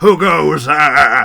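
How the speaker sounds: very loud, high-pitched yelled call-out. Voicing a dwarf on a tower who spots the party: yelling. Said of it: "will yell".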